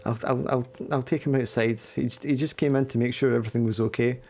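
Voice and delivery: lightly voiced Emil, hurried and soothing; Emil calming. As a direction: talk her down quickly.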